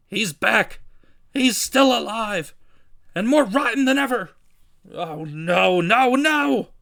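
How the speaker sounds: high, loud cries of horror; despairing wail. Acted. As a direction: build to a wailing, drawn-out no. Editor wails at hero's return.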